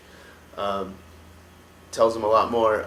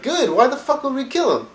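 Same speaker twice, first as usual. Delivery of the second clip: high, loud scolding warlord rant; much higher, loud berating of the dumb clan members; Hellscream yelling; 6 semitones higher, 5 dB louder than usual. Retold or imitated. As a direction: tear into them as the furious chieftain. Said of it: "And Grom Hellscream's like".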